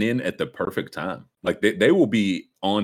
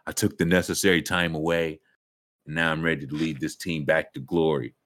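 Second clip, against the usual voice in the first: mock press conference; 5 semitones lower than usual. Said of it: "can't wait for that press conference".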